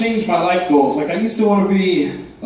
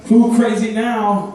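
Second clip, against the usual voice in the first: mock gloating taunt; 5 semitones higher than usual.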